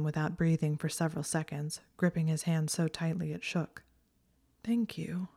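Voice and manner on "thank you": soft unvoiced thank you; whispered thanks. A narrator's reading. Tearful Hermione whispering thanks to Draco. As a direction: breathe the thanks out softly. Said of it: "she said".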